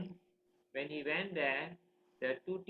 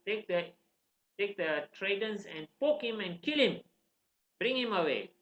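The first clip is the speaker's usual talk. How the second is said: raised, emphatic acted order; stern command; 4 semitones higher, 4 dB louder than usual. King ordering guards to punish son, commanding. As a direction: order it with mock severity.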